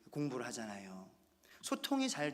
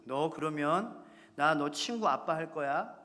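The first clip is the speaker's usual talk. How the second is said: mock threat to daughter; 6 dB louder, slower than usual. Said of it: "제가 이런 말을 합니다".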